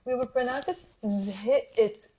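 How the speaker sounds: zhit said without the qaf, slowly; dropped qaf. Shown as a demonstration. Teacher showing the right way, slow and clear. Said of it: "we will not pronounce zhqt".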